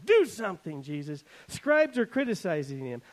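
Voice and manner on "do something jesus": demanding. Retold or imitated. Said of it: "people begin to demand of him".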